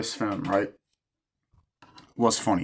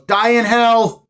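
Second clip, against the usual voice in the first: slow, drawn-out shout, much higher and louder; mock curse; 10 semitones higher, 6 dB louder, slower than usual. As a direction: spit the curse out slowly like a hammed-up villain. Retold curse at customer.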